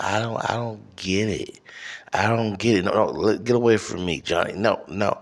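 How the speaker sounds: put-on high-pitched, flustered older woman, stammering; racist older white woman. Comic imagining an old redhead coming toward him, indignant high woman voice. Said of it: "some old racist, uh, redhead white woman".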